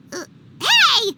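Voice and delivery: loud squawk of protest; offended protest. Acted. Paimon realizing she is just a mascot, offended. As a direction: catch the insult late.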